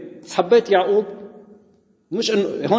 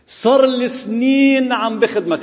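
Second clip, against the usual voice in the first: slow, drawn-out grievance pitched up and louder; resentful elder son; 6 semitones higher, 3 dB louder, slower than usual. Retold or imitated. Elder son whining to his father about years of service, slow and pitched up. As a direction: drag out the complaint like a sulking older brother.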